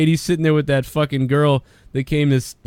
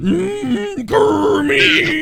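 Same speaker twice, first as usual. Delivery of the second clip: high squealed mimic of a friend; mock outburst; 13 semitones higher, much slower than usual. Friend mimicking an erupting girl, high squeal.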